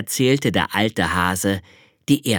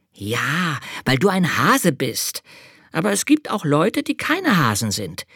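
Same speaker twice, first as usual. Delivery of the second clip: high, eager little angel; child-like angel explaining; 7 semitones higher than usual. Acted. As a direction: play the small angel, higher and keen. Angel character voice.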